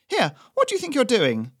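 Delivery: put-on high, loud, affronted old woman; alarmed indignation. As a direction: fend him off sharply. Doris as rabbit nears.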